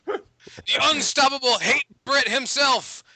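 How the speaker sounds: punchy hype intro, drawing out the name; drawn-out announcer billing; announcer introduction. Acted. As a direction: introduce a co-host like a ring announcer.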